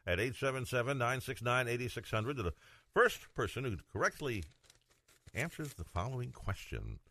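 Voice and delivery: punchy host read, key words set apart; radio contest announcer. Acted. Host giving listeners the mug contest question, announcer style.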